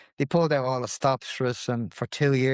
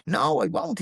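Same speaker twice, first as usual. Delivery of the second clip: mildly heated, higher-pitched retelling; retold angry outburst; 4 semitones higher than usual. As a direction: retell his refusal with a touch of temper. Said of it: "He lost the head".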